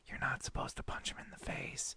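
whispered aside; whispering. Retold or imitated. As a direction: breathe it as a secret. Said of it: "them going".

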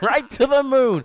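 loud high slow mock shout; Ralph Kramden shout. Honeymooners quote, loud high.

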